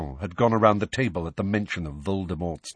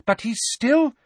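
high, loud objection; agitated, high-pitched insistence; voice rising; 5 dB louder than usual. A narrator's reading. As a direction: push on in a raised voice. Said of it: "her voice rising".

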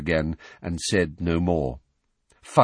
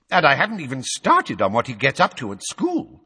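slightly higher, louder grumbling official; a hint of the ranting minister; 6 semitones higher, 4 dB louder than usual. A narrator's reading. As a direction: press on with grievances. Fudge ranting.

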